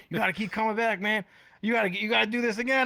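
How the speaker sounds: quoting the man. Retold or imitated. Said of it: "The man".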